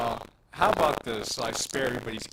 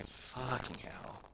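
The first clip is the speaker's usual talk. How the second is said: muttered under breath; 12 dB quieter, much slower than usual. Real, not acted. Frustrated with broken audio.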